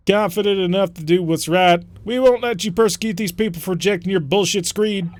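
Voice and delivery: loud defiant retort. Acted. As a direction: push back hard, daring them. Voices defiant enemy commander.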